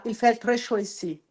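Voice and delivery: "il fait très chaud ici" on a level tune, no emotion; flat French. Shown as a demonstration. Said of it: "também é muito flat". (francês reto, "il fait très chaud ici" sem emoção)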